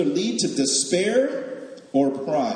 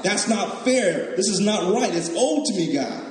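a touch of spoilt grievance; mock indignant complaint; 4 semitones higher than usual. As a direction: protest to God that it's owed. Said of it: "we're mad at God".

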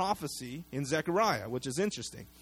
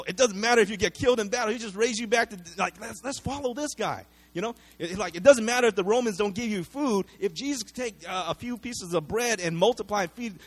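excited crowd; 5 semitones higher than usual. Retold or imitated. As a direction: rattle it off like a thrilled follower. Crowd imagining Jesus as general.

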